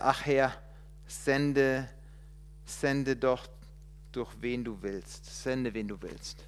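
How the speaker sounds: resigned plea. Acted. Moses asking God to send someone else, fading. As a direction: give up as the words go.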